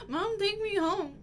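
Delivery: hammed-up teary plea; mock crying. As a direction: fake sob.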